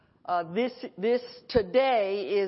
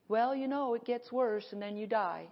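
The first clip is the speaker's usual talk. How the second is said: mock gloomy complaint; 6 dB quieter than usual. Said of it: "stop saying".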